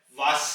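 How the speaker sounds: वास ending on a sharp एस; final S. Shown as a demonstration. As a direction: end वास on a crisp एस. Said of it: "आवाज एस की निकलेगी". (वास के अंत में तीखी एस)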